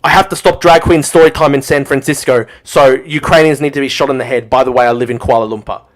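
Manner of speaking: loud sneering parody of a pundit's logic; mocking Ian Miles Chong. Streamer mocks a pundit he despises, loud sneering parody. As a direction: blare his reasoning back at him in scorn. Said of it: "Oh, um".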